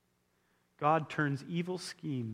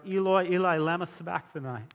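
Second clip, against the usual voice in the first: mildly raised cry, falling away; retold cry; 4 semitones higher, 5 dB louder than usual. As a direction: quote an outcry, half-projected. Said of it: "he cried out".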